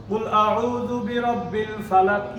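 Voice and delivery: slow, melodic recitation of the verse; slow tajweed chant ending on ফালাক; Quran recitation. Shown as a demonstration. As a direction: recite it slowly as in prayer. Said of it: "কিন্তু আপনি থামলে কি বলেন?".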